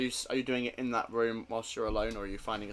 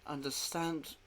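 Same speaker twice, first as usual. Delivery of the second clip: distressed Anna; 5 semitones higher than usual. Acted.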